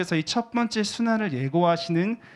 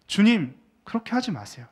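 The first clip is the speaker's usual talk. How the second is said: Peter protesting; 5 semitones higher than usual. Acted. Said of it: "이렇게 이야기를 하는 겁니다".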